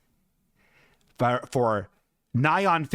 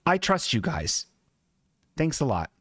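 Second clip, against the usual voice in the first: sincere trust redone. Shown as a demonstration. Showing the audience how he told the mechanics, sincere. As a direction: show exactly how you said it, earnest. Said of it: "And I said it just like that".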